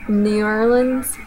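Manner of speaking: "New Orleans" drawled slow as "New Or-lunz"; slow Southern "New Orleans". Shown as a demonstration. Speaker says "New Orleans" the Southern way. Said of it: "second will be Southern version".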